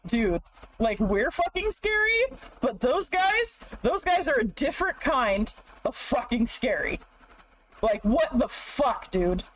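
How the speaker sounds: hammed-up spooked orcs; a jokey orc freak-out; spooked orc chatter. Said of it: "And they're like".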